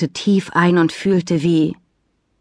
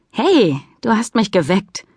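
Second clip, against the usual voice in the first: mock stern; 4 semitones higher than usual. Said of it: "Es sollte eigentlich streng klingen".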